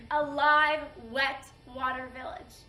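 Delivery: loud first word, then easing; proud celebration. Acted. Woman praising her body as hometown, proud. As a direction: celebrate it, striking the opening loudly. Village remembered proudly before destruction.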